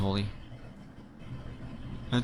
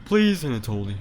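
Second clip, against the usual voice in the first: pleading character; 4 semitones higher than usual. Acted.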